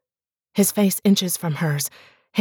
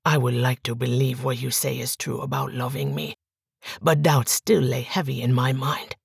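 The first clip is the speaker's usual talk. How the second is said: quieter, lower, brooding doubt; doubting husband, softer and lower; 5 semitones lower, 3 dB quieter than usual. Acted. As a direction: murmur his doubts. Miguel doubts.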